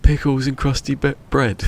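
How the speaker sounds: high and loud punchline; retold gleeful reveal. Uncle asked about the pork, high mock answer. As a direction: deliver it amused, pitched well up.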